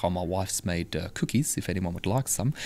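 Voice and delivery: put-on Kiwi accent. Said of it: "I can't do a great Kiwi accent".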